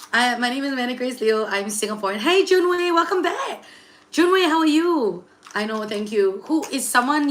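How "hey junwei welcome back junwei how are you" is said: high, laughing hello; laughing greeting. Real, not acted. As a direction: laugh through the welcome back. Greeting returning viewer on stream.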